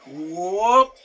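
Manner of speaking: "whoop" sliding slowly upward; a long swooping lift noise; drawn-out rising whoop. Shown as a demonstration. Trainer showing viewers how you go up in a deadlift, rising whoop.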